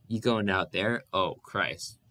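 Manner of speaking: a touch of giggle through the words; giggling disbelief. Acted. Ragged man mocks the family's hopes, giggling. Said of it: "The giggling got out of control".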